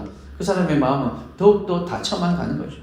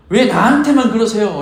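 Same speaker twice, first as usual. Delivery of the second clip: higher, louder, arguing with God; mock complaint; 5 semitones higher, 4 dB louder than usual. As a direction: demand why it's always you. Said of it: "라고 따지기도 합니다". (높고 크게 따지듯)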